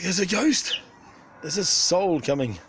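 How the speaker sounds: high loud mock panic; panicked bird voice. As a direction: squawk it like a spooked bird. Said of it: "They're like".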